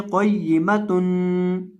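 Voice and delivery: क़य्यिमतुन with a nasal hum on the meem, slow; wrong ghunna. Shown as a demonstration. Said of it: "बाद लोग इसको गुन्ना कर देते हैं".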